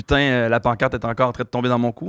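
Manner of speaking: mock accent from France; imitated France French. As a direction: play a French person complaining, lightly put on. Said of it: "Est-ce que tu vas dire, genre". (accent de France imité)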